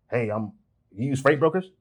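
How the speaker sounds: mock scripted caller.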